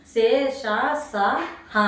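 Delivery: సే, ష, స, హ spaced apart, each with a clear gust of air; blown-out sibilants. Shown as a demonstration. Teacher telling the student to notice, emphatic airy సే, ష, స, హ. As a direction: demonstrate సే, ష, స, హ separately, blowing air out on each. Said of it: "నోట్లో నుంచి గాలి బయటకు వస్తేనే".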